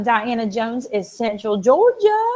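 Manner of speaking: put-on playful Central Georgia accent; lightly hammed-up Georgia drawl. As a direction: put on a Southern Georgia lilt. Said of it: "I gotta put the accent in there".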